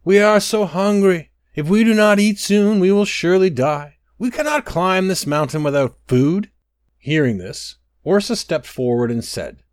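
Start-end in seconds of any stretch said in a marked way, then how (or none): 0.0-6.5 high, loud desperate plea; a hungry crowd wailing, higher and louder; crying out. A narrator's reading. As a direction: cry out as starving people begging. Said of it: "They began to cry out".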